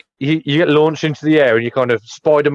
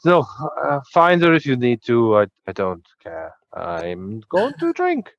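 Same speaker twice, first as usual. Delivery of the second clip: sloshed dismissal. Acted. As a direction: wave them off like a drunk who only wants his drink. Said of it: "he's pretty sloshed".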